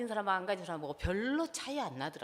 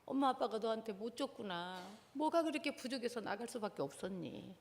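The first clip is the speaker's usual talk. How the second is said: put-on gentle apology to child. Shown as a demonstration. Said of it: "나 사과부터 먼저 하라 그랬어요". (자녀에게 사과하는 부드러운 부모 목소리)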